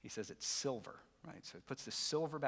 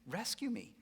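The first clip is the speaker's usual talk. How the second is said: imitated crying plea; 7 semitones higher than usual. Joseph begging his brothers from the pit, mock-desperate. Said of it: "He was screaming, he was crying".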